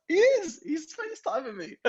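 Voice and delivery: very high-pitched, excited insistence; retold excited insistence. Acting out insisting to his mate, excited.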